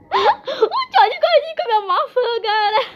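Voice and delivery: high, laughing through the words. Real, not acted. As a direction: crack up while you say it. Laughing at George eating apple. (rindo alto)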